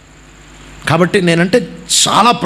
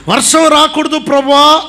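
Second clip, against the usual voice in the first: pleading prayer; 7 semitones higher than usual. Retold or imitated. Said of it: "అంటే".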